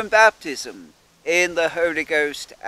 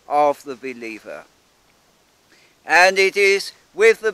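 measured, earnest prayer voice addressing God; spoken prayer. Acted. Minister thanking God for A A Body, reverent prayer. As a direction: pray aloud for the congregation, steady and reverent.

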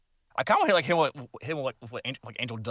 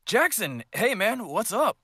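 Ken impression; 10 semitones higher than usual. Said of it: "Nice impression, though".

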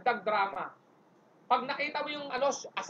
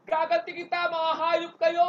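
vengeful shout; 6 semitones higher, 3 dB louder, slower than usual. Acted. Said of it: "kung gusto mo sumigaw".

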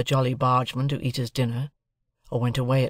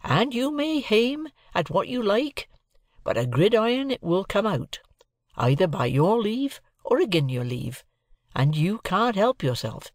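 Joe the blacksmith; 8 semitones higher than usual. A narrator's reading. Joe steadfastly lecturing Pip on gridirons, lightly voiced rustic. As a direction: press the point like a stubborn country blacksmith.

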